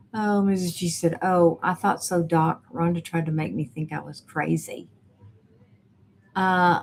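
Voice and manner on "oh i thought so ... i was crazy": ordinary talk, nothing marked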